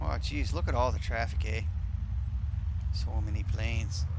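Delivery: casual put-on Canadian accent. Pilot eyeing all the traffic, mock Canadian accent. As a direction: play a Canadian gawking at the traffic. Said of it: "I can use my Canadian accent".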